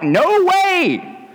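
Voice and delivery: high, startled outcry; mock-panicked no way. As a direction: blurt it out in disbelief. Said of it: "And Peter's like".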